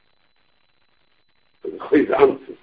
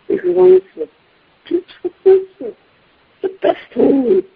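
mock amazement; 9 semitones higher, 5 dB louder than usual. Marvelling at the lavish bar mitzvah.

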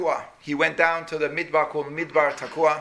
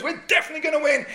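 cocky confidence; 11 semitones higher, faster than usual. Retold or imitated. Soldiers marching confident.

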